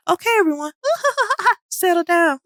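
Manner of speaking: trying to speak through bursts of laughter; barely holding it together; laughing. A narrator's reading. Teacher calming the class while cracking up laughing. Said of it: "Laughing louder".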